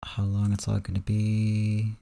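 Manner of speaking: normal talking voice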